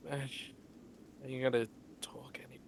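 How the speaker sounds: whispered. Acted. Whispering in hushed scene.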